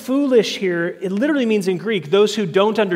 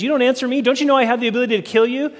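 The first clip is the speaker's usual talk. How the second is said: raised, faster menacing challenge; threatening Pilate; 4 semitones higher, 4 dB louder, much faster than usual. Retold or imitated. Pilate threatening Jesus, in a raised, rapid menacing voice. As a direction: push the threat at him, higher and quicker.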